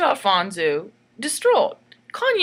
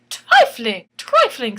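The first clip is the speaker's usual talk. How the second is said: mock disgust; 7 dB louder, slower than usual. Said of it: "said I".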